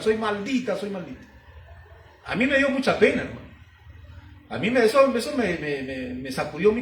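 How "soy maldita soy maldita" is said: retold crying, fading. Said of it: "empezaba a llorar y a llorar".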